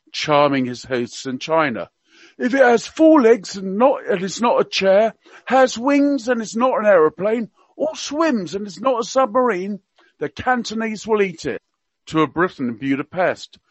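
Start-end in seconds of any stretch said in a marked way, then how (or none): 2.4-11.6 higher, hammed-up Cockney accent; Prince Philip in Cockney. Radio guest quoting royal gaffes to listeners, mock Cockney accent. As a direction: play the old duke's gaffes in mock Cockney. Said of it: "he spoke with a Cockney accent".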